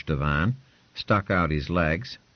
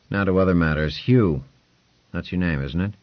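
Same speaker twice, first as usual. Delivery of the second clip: a slightly louder, brisk lordly voice; lordly patron; 4 dB louder than usual. Acted. Lord Ponce quizzing Hugh, a lightly voiced, brisk lord. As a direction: talk down like a lord testing a servant.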